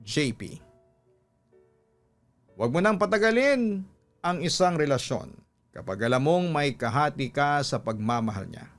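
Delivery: ordinary delivery, nothing marked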